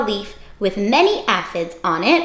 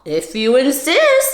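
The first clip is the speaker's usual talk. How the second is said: calm stag beetle; 3 semitones higher than usual. Acted. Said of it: "said the stag beetle".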